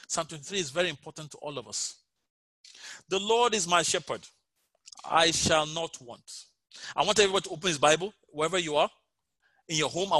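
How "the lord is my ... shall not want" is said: unhurried, measured scripture reading; slow reading. Shown as a demonstration. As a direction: let each word land slowly. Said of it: "I'll read it slowly as we go through".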